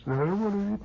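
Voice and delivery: high whining repeat; little brother refusing supper; whiny kid brother. Retold or imitated. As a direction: whine it again.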